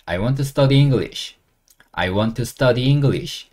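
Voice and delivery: very slow, word by word; slow model sentence. Shown as a demonstration. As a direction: drill it slowly for learners. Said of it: "뭘 공부할 건데?". (천천히 또박또박 따라 하기)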